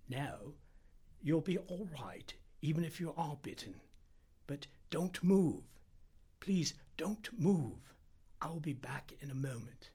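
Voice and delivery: steady a patient with careful, spaced-out pleas; reassuring Indian doctor. Acted. Narrator voices the Indian doctor.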